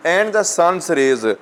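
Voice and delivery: slow, deliberate verse reading; poem recitation. Real, not acted. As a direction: recite the phrase slowly to a class. Reads poem line aloud to students.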